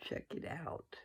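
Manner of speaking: breathy whispered aside; whispering. Real, not acted. Whispered aside after sign-off.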